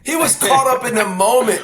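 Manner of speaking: spoken through laughter; laughing. Real, not acted. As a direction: keep laughing while you talk. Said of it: "laughing heard".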